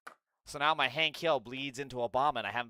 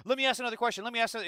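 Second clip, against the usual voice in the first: high, loud mocking whine; mocking the debater; 9 semitones higher, 4 dB louder, much faster than usual. Streamer mocks the debater who keeps pushing questions, high mocking whine. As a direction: parrot him in a pushy sing-song.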